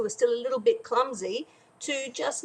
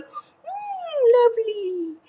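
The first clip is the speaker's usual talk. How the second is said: high, louder hammed-up witchy mm; mock witch relish; 11 semitones higher, 5 dB louder, much slower than usual. Witch eyeing children's hands at the fence, mock relish. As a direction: savour it like a greedy witch, lightly.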